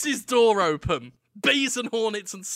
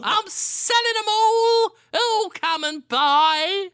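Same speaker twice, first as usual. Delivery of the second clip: high, slow hawker call, much higher; street vendor cry; 5 dB louder, slower than usual. Acted. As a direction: cry out your wares like a market trader. Market seller calling out wares.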